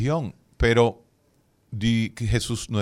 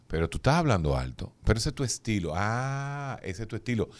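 imitating the friend's reply; 2 semitones lower, 4 dB quieter than usual. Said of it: "y usted le pregunta".

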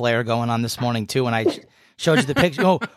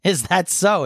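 higher-pitched mock reply in a drawl; 6 semitones higher, slower than usual. Host answering his friend's drawl, mocking her. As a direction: tease with an exaggerated little question. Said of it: "Stop mocking me".

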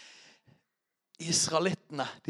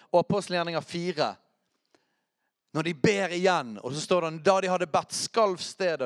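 raised, emphatic sermon voice; energetic preaching; 5 semitones higher, 4 dB louder than usual. Real, not acted. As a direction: preach it with urgency to the congregation.

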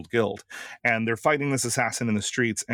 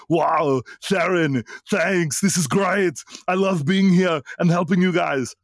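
loud, high Arnold Schwarzenegger voice; 8 semitones higher, 5 dB louder than usual. Acted. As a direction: boom it out like the Terminator. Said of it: "That was the speaker doing Arnold".

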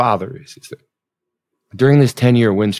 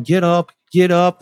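retold yelling; 8 semitones higher than usual. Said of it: "The coaches start yelling".

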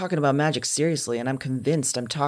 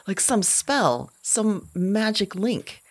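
wonder; 6 semitones higher, slower than usual. Acted. Rising wonder in monologue.

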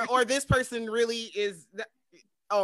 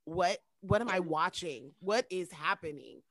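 slow, soft, stunned disbelief; understated shock, low and hushed; mock bewilderment; 4 semitones lower, 6 dB quieter, slower than usual. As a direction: retell it as a slow, dazed question. Retold bewilderment at shocking episodes.

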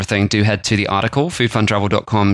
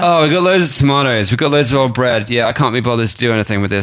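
a touch of can't-be-bothered stoner; lazy stoner. Retold or imitated. Imagined cook shrugging off a tomato glut, lightly voiced lazy stoner. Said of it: "sounds like a lazy stoner way".

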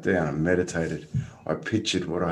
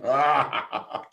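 retold pain cry; 5 semitones higher than usual. Surfer retelling water hitting his broken toe, mock cry. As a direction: cry out, breaking into a laugh.

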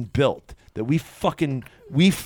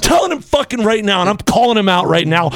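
wrestling promo; 3 dB louder than usual. Acted. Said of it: "I'm going W W F right now".

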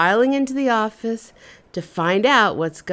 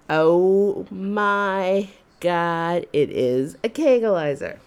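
inner scream; slower than usual. Retold or imitated. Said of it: "I just screamed in my head".

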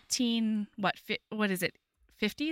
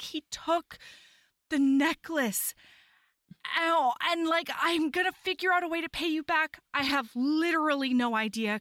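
high, mildly plaintive imitation of crying; tearful; 5 semitones higher than usual. Heroine telling him of the stolen necklace, mock tearful lament. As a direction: lament it high, halting before the loss. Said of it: "like, she's crying".

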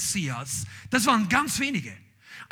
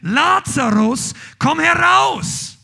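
slow, ringing shout of Lazarus's name; loud call; 7 semitones higher, 9 dB louder, much slower than usual. A narrator's reading. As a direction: call him out of the tomb with full voice. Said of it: "rief er mit lauter Stimme".

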